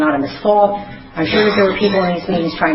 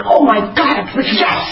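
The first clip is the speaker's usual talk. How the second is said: shouted, overjoyed agreement; excited yes; 5 semitones higher, slower than usual. Retold or imitated. To her sponsor, recognizing herself at last, shouting yes. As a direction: blurt it out in relief. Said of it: "I was like".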